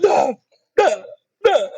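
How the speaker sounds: high squeaky denial; mock denial. Friend denying he is crying, high squeaky protest. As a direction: play the friend denying through tears.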